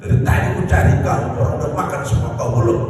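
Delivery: put-on Batak accent. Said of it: "dengan suara yang stereotip".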